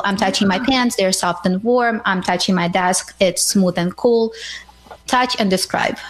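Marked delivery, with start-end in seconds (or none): 0.0-4.3 demo description. Shown as a demonstration. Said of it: "For example".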